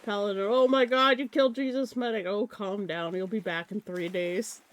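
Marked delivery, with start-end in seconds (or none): 0.5-2.2 outraged shout. Acted. Acted gamer outrage at a kill.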